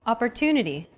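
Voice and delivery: Opportunity, stressed and lengthened on the third syllable. Shown as a demonstration. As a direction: lean on "tu" in Opportunity. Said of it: "pronounced longer than all other".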